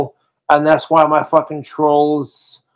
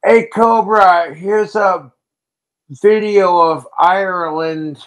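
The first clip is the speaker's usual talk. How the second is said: imitating his dad; 4 semitones higher than usual. Streamer retelling his dad reaching out, mild friendly dad voice. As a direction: lightly act out a friendly father. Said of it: "he was just like".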